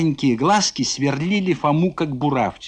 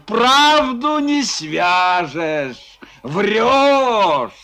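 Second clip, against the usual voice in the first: defiant retort; 5 semitones higher, 3 dB louder, much slower than usual. Acted.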